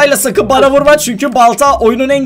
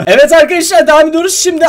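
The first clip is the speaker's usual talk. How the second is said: upbeat intro; 7 semitones higher than usual. Acted. Vlog segment intro.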